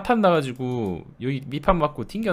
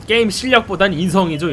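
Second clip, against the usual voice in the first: mocking quote; 4 semitones higher, 4 dB louder than usual. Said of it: "이러면서".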